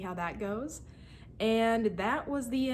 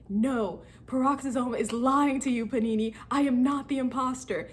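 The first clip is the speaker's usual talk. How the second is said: a touch of heated denial, a bit higher; mild arguing; 4 semitones higher, 3 dB louder than usual. Retold or imitated. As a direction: insist you're innocent, pushing back. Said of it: "we're just arguing".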